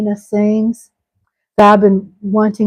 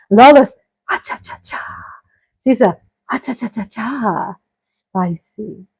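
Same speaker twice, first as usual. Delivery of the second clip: playful; 3 dB quieter than usual. Pretend. Playful hype of sister-in-law.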